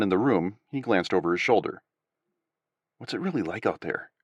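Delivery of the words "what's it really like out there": hushed, much softer question; whispered. A narrator's reading. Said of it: "he whispered".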